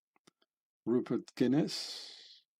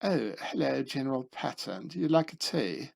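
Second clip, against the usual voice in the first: lampoon a fussy officer greeting; prissy British officer voice. Retold or imitated. Montgomery offering General Patton tea, mock-polite. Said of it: "talking like this".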